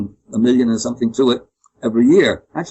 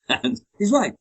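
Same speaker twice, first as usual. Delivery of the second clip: chuckling through it, pitched higher; laughing; 9 semitones higher, slower than usual. Real, not acted. Amused by his own story, laughing as he agrees.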